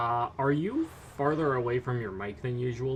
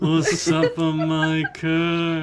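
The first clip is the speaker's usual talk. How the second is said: slow, looming curse voice; mummy curse voice; 3 semitones higher, 5 dB louder, much slower than usual. Acted. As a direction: intone like an ancient curse.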